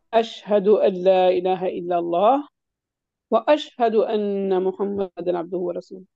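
slow, with a full pause between اللہ and واشہد; slow teaching recitation in two parts; two-sentence reading. Shown as a demonstration. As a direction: split the testimony into two breaths. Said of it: "دو sentence کی طرف پڑھ لیں".

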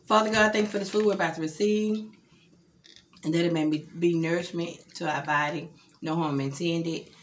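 saying grace, low and steady; prayer. Real, not acted. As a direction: bless the food like a prayer. Saying grace before meal.

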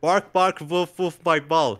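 mock dog voice. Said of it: "He says that in the storyline".

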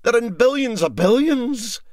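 outraged at the swarm; aghast complaint. Acted. MacPhail complains to the crew, loud and aghast.

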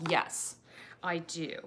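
hushed and unhurried; ASMR voice. Shown as a demonstration. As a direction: drop into a gentle ASMR voice. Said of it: "you like my A S M R voice".

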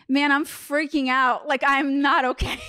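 a hammed-up plea to a friend; mock freaking out. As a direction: play up the shroom panic, half joking. Retelling her own panicked words on shrooms.

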